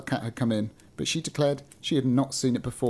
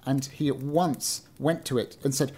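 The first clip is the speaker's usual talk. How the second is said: measured storybook reading; story narration; 2 semitones lower than usual. A narrator's reading. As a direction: read it out like an old-fashioned tale. Reads a story aloud.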